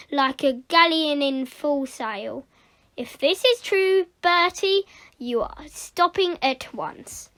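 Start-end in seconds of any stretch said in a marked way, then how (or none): 3.0-7.3 stern teacher, pitched up then dropping; mildly booming reprimand. Acted. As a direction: lay down the law. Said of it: "she boomed".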